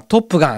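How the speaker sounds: トップガン said with an imitated English intonation; native-like intonation. Radio host recalling how a colleague said the film title, imitated native-like トップガン. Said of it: "トップガンのイントネーションが最高でした".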